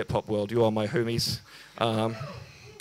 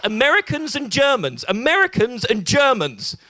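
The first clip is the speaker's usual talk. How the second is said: imitated outrage climbing higher each time; incredulous friend; 7 semitones higher than usual. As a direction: repeat it with escalating, high-pitched disbelief. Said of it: "he was like".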